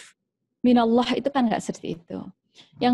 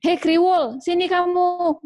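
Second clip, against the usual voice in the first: a lightly voiced, higher mocking mom; name-calling mother; 8 semitones higher, slower than usual. Mother calling her child by a teasing nickname, mild mockery.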